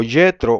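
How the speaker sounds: Yetro starting with a Y glide; Septuagint form. Shown as a demonstration. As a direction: say Yetro with I in place of J. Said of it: "dice Yetro con I".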